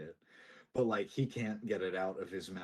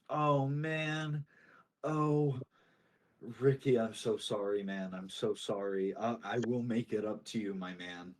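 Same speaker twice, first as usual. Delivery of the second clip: apologetic. Acted. Carver to the fisherman over his lost ship, apologetic. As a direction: act out a sheepish, regretful apology. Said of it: "similarly apologetic".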